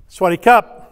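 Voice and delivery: Sawasdee Krap said loud with a rising Krap; Thai male greeting. Shown as a demonstration. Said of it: "A male ends the phrases with".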